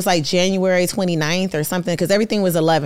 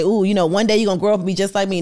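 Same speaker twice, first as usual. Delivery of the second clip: fast, breezy mock pep talk; quick, teasing imitation of a self-help guru; mock hype speech; much faster than usual. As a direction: rattle it off like a cheesy motivator. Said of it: "I'm not trying to say".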